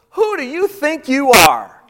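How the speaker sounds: high, loud, indignant challenge; indignant woman. Retold or imitated. Woman at the well challenging Jesus, loud and indignant. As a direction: put him in his place. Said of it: "the translation to this is".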